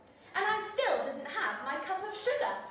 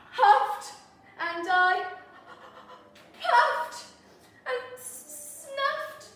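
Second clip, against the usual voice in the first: building sneeze; 9 semitones higher, 7 dB louder, much slower than usual. Acted.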